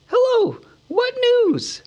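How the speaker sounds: high, wavering hobbit shout; shaky call. A narrator's reading. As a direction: call out, voice trembling. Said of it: "he called with a shaky voice".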